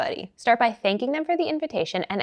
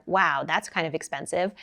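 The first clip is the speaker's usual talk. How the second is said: "Wow" in a lower note with a tone of judgment; mildly disapproving, lower-pitched remark; judgmental lower note; 2 semitones lower than usual. Shown as a demonstration. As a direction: let a little judgment drag it down. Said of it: "That's kind of a lower note. It's got a tone of judgment".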